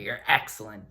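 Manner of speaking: "excellent" dito com E forte e confiante; stronger E. Shown as a demonstration. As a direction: diga "excellent" sem medo. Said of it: "it's a little bit stronger".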